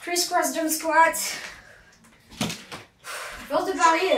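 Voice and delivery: breathless coach calling out; out of breath between moves. Real, not acted. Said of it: "je suis essoufflée".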